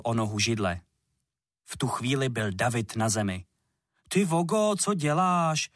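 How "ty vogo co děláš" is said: put-on higher, louder angry boy's cry; angry outburst. A narrator's reading. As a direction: snap at him in anger. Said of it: "rozčílil se".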